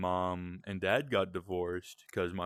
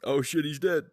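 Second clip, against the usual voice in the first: surprised outburst; 8 semitones higher, 7 dB louder than usual. Real, not acted. Game character dies on screen.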